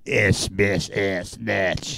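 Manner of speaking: low mock German accent. Showing how German goes, mock German accent. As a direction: put on a clipped-in, lightly hammed German accent. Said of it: "doing the German accent".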